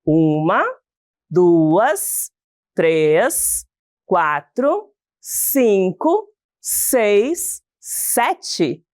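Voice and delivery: slow count, each number separate for others to join in; counting along. Shown as a demonstration. Teacher inviting pupils to count the verse's syllables together, counting along. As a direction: count one number at a time with pauses between. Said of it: "Contem aí comigo".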